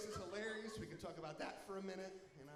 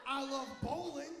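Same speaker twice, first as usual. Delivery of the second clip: put-on childish excitement; 7 semitones higher than usual. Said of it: "I was like".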